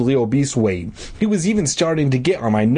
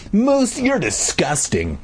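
put-on slow, higher disgusted girl's groan; 7 semitones higher, slower than usual. A narrator's reading. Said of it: "Mindy groaned".

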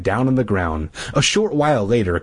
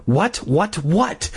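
frantic; 7 semitones higher, much slower than usual. A narrator's reading. Frantically thinking.

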